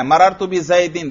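مررت بزیدن said slowly, sounding the final "-in"; pronouncing the jarr. Shown as a demonstration. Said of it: "دیکھو جر پہ میں کیا کر رہا ہوں".

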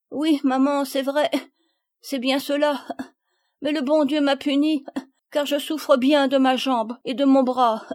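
high, loud crying voice with little sobs; tearful confession. A narrator's reading. Palmyre confesses to her mother, crying. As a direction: sob between halting phrases.

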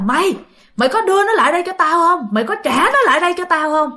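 high, fast, raging crone voice; scolding old hag. Acted. Old hag berating the young man, high and fast. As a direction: spit it out like a furious witch. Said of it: "luôn miệng chửi bới".

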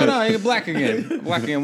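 high and loud laughing tease. Pretend. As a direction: rub it in while laughing. Laughing teasing.

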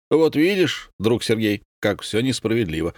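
plain reading voice

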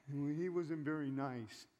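slow, sulky grumble, only lightly voiced; mock a churchgoer pouting over the pastor; a hint of a whiny complainer.

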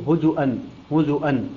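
هزؤا with a sounded glottal stop; with hamza. Shown as a demonstration. Teacher showing Qalun's reading, هزؤا with hamza. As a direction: say هزؤا, clear hamza before the ending. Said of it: "حيث يقرأها بالهمز".

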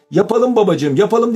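put-on high-pitched childlike cheer; gleeful. A narrator's reading. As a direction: agree with bubbling delight. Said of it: "neşeyle ellerini çırparak". (neşeyle, çocuksu sevinçle)

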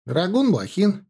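high, lilting roll-call answer; light, cheerful young soldier's answer; smiling introduction. A narrator's reading. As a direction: give your name with a smile. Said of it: "представился, улыбаясь, Лёнька".

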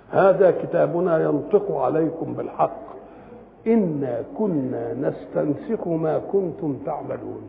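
slow, drawn-out verse recitation; scripture recitation. Acted. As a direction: recite slowly, stretching the words out. (تلاوة بطيئة متأنية)

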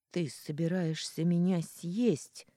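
shaky frightened accusation, slowed; a frightened girl accuses him, trembling. Acted. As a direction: blurt it out scared, voice trembling. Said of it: "дрожащим голосом проговорила я".

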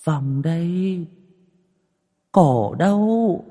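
high, slow, drawn-out ghostly wail; ghost hissing. A narrator's reading. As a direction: call her out like a hanged ghost beckoning from the bedside, slowly. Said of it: "mà rít lên". (giọng ma rít lên cao, kéo dài chậm rãi)

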